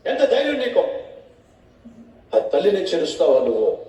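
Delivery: outraged challenge, pitch jumping up on the first question; loud angry rebuke. Acted. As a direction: demand how he dared, in anger. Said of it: "గట్టిగా ఆవేశంగా మాట్లాడితే".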